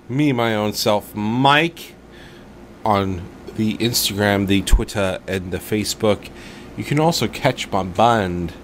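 lightly put-on, amateurish English accent; slow into a hammed-up bad English accent. Podcast host plugging his socials, bad English accent. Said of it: "You got English all of a sudden".

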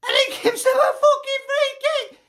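laughing outraged shout; exasperated shout. Real, not acted. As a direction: shout it through a bitter laugh. Outraged at referee decision.

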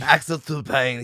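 put-on light British accent, name drawn out slowly; slow British take on the name. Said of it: "if you say it like a British guy".

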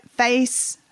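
Southern-tinged "Face"; Southern accent. Real, not acted. Host slips while naming a product, Southern accent. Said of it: "this is my Southern accent coming up".

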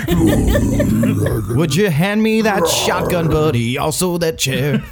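slow, laughing deadpan request; mock calm. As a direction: casually ask for the shotgun. Role-playing campfire bear scene.

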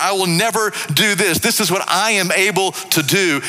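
high-pitched proud declaration; Peter, bold and proud. Acted. Peter making audacious declarations to Jesus, bold and proud. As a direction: declare it boldly, full of self-belief. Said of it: "all these bold, proud, audacious declarations".

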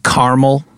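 caramel said as "car-mul", middle vowel dropped; two-syllable caramel. Real, not acted. Host asks co-host about the candy, caramel said as CAR-mul. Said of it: "Are you trying to say caramel?".

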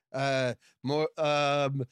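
normal talking voice

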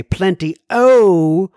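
drawn-out, playful Irish "Plenty o"; Irish-style flourish. Acted. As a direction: tip your hat to the Irish with a stretched "o". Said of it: "my tip of the hat to all the Irish".

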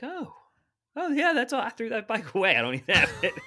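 put-on high, loud, breezy old lady, laughing at the end; carefree grandma. Grandma telling grandson she threw bike away, high and laughing. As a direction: toss it off like it's nothing. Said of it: "she's like".

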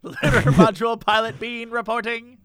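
fast, laughing anime hero report; overacted anime dub. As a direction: play an eager cartoon pilot. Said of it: "sounds like an anime character".

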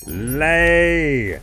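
booming drawn-out order, high and loud; loud command. Acted. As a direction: roar it at the hen. Giant commands a third time.

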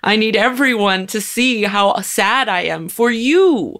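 mocking self-centred white woman. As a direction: drag it out, playing the fake-sympathetic bystander. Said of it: "and still go".

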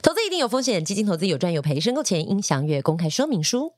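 quick radio DJ disclaimer; fast disclaimer read. Shown as a demonstration. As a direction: rattle off the fine print. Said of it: "专业广播D J挑战快嘴".

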